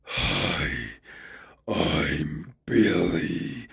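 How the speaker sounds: low, very slow monstrous growl; eldritch horror voice. Acted. Cursed Billy's greeting as others hear it, low and slow. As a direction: drag it out like a horror from beyond. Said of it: "all anyone would hear would be".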